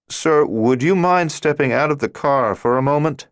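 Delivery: a cop turning cautious and formal; wary cop. A narrator's reading. Officer ordering the driver out, lightly wary.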